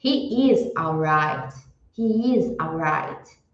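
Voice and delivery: slow, careful statement; deliberate teacher read; slow model sentence. Shown as a demonstration. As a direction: model it slowly for students. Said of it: "eu falaria".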